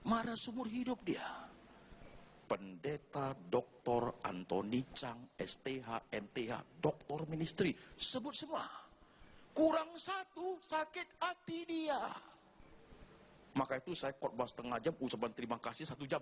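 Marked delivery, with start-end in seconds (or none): 2.5-12.0 higher, slow, mock-hurt complaint; mock offended. Preacher mocking title-proud pastors, higher and mock-hurt. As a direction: pout at the missing title.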